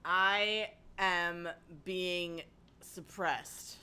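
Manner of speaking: very slow, mock-solemn announcement; deadpan melodrama, dragged out; mock dramatic. Joking about being censored.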